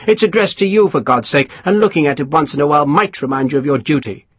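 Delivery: a touch of irritated officer; mildly irritated colonel; irritable colonel. Acted. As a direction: dismiss him impatiently. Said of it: "said irritably".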